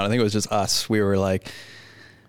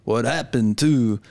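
imitating the caller; slower than usual. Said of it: "Don't do the voice".

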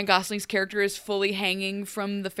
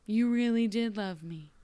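whispering; 5 dB quieter than usual. Retold or imitated.

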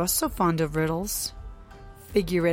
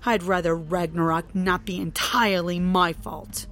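angry rant; 4 dB louder than usual. Acted. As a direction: tear into him. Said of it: "continue her rant".

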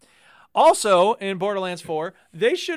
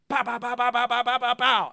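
pow pow gun noises; rapid-fire pow sounds; mock gunfire; 5 semitones higher than usual.

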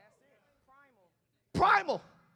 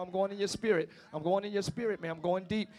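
intoning in the spirit; preaching prayer; 3 semitones lower, faster than usual. Real, not acted. Preacher praying over the congregation. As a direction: pray it over them. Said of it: "Excuse me for a minute, y'all".

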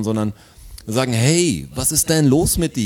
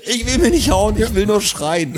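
imitating the cyclist; 9 semitones higher, 4 dB louder than usual. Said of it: "Und er hat gesagt".

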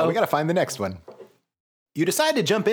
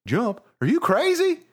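yelling back; 9 semitones higher than usual. A narrator's reading. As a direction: yell it back in disbelief. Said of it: "you yell back".

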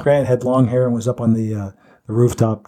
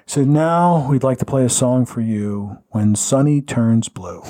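slow, smooth jazz DJ announcer; deep radio voice; slower than usual. Retold or imitated. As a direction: croon it like a late-night jazz DJ. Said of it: "Now I'm doing it in my, in my deep, deep radio voice".

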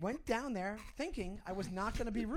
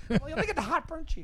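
angrily sarcastic; 6 semitones higher, 6 dB louder than usual. Retold or imitated. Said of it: "eating fries angrily".

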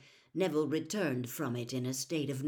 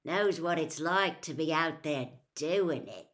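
impressively; 4 dB louder than usual. Acted. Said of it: "said George impressively".

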